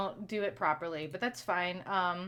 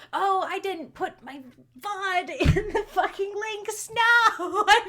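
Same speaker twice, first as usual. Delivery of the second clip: higher, louder, slow laughing realisation; laughing at herself; 12 semitones higher, 10 dB louder, slower than usual. Real, not acted. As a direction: laugh at your own mistake. Realises she forgot vod links.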